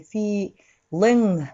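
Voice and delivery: "feeling" ending in ng through the nose; nasal ng ending. Shown as a demonstration. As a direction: let "feeling" resonate in the nose at the end. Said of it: "ビダコンでfeeling". (「feeling」の語尾を鼻腔で鳴らす)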